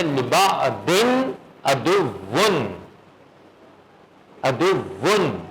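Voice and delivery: drawn-out recitation of "ادون" with the nasal noon sounded clearly; slow Quran recitation. Shown as a demonstration. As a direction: recite "لبا دن ادون" very slowly, stretching each syllable. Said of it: "تو اس کو پڑھیں گے". (آہستہ تلاوت، "ادون" میں نون واضح)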